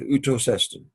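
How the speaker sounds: outos estin joined closely as one quick word; said quickly, run together. Shown as a demonstration. Teacher showing how an enclitic joins its word, quick and run together. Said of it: "say it just that quickly".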